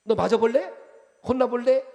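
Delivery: a gentle regional warning, lightly hammed; 어린애를 겁주는 듯한 충청도식 꾸중; Chungcheong-style scolding. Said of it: "이게 우리의 용어예요".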